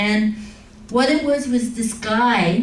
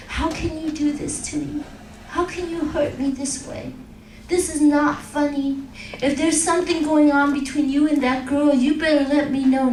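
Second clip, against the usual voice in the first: tearful pleading. Retold or imitated. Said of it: "She broke down and cried".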